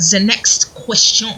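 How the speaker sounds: slow, drawn-out French-accented English. Shown as a demonstration. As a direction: say it like a Frenchman, slowly. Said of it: "Loving, loving my French accent".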